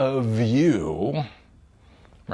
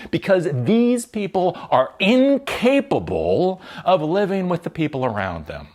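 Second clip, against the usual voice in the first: angry; 7 semitones higher, 4 dB louder than usual. Real, not acted. Angry rant about war.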